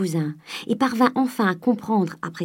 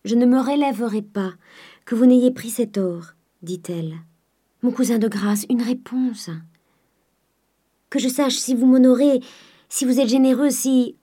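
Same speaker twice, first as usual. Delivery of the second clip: noble despairing cry; 5 semitones higher than usual. Acted. Eugénie begs Charles to accept the gold, despairing cry. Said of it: "le cri d'un noble désespoir".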